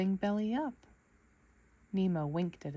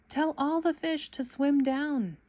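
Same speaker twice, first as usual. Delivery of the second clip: urgent command; 7 semitones higher than usual. A narrator's reading. Nemo shouting orders in net.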